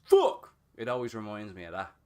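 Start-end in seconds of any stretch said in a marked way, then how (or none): 0.0-0.5 very high, loud barked Fuck!; meme dog yell. Retold or imitated. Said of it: "the dog or something and just goes".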